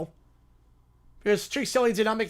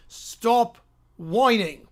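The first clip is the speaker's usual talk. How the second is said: slow, booming monster command; a big lizard telling kids off, drawn out; Godzilla voice; much slower than usual. Acted. Godzilla scolding whining kids, slow monster boom. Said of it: "the force of his voice".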